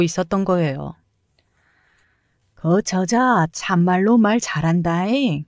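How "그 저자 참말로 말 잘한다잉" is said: put-on slow, drawn-out Jeolla country accent; an old Jeolla security guard, admiring, slow; Jeolla dialect. Security guard applauding the wife's telling-off, slow Jeolla accent.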